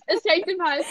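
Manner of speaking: giggling through mock choking; choking act breaking into laughter; laughing while fake choking. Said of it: "ich krieg keine Luft mehr".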